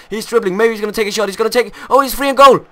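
building from eager to loud shout; excited rising to goal shout. Real, not acted. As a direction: climb in pitch, then shout goal. Rival scores against him.

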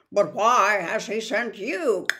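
put-on the old spider asking. Aragog questioning.

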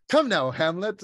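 high, loud thespian flourish; hammy Hugh Grant villain. Retold or imitated. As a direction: ham it up like a washed-up actor. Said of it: "He is hamming it up".

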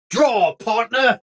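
"Draw, partner" stretched out slow and menacing; slow drawn challenge. Acted. Gunslinger calling an outlaw to draw, slow and menacing. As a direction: drag the words out like a gunslinger.

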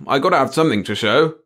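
complaining. A narrator's reading. Chief needing results to show his boss, complaining. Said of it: "the chief complained".

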